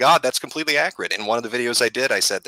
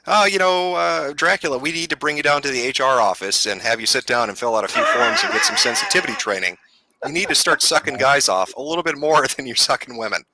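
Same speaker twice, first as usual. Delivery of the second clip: mock HR officer; 3 semitones higher than usual. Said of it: "What is the argument here?".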